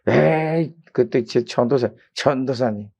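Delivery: put-on drawn-out drunken grumble; lightly voiced drunk man; drunk husband. Drunk husband addressing the young preacher, lightly slurred grumble. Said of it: "술 취해서 하는 말이".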